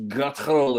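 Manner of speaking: "guttural" ground out in the throat; throaty guttural. Shown as a demonstration. Describing Scottish speech, throaty "guttural". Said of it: "It's in the throat".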